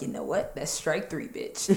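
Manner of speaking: low, soft, deadpan kiss-off; calm breakup line to boyfriend; cold dismissal. Retold or imitated. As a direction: quietly cut him off for good. Her cold reply to boyfriend.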